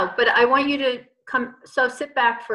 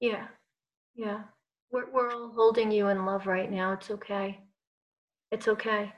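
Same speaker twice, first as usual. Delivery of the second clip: soft, tender comfort; soft reassurance for a tearful client; reassuring; 6 dB quieter than usual. Real, not acted. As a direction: hold her gently with your voice. Comforting a client who is crying.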